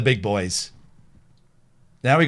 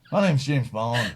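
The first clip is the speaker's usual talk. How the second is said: Bond impression; 3 semitones lower than usual. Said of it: "That's not a bad impression".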